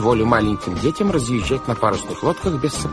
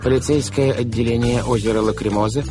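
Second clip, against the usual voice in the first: stern denunciation; 4 semitones higher than usual. Acted. Banker sternly denouncing the villain.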